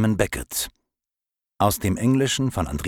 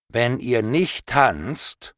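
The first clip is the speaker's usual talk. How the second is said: threatening; 5 semitones higher, much slower than usual. Acted. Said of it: "mit einer ziemlich bedrohlichen Stimme gesagt".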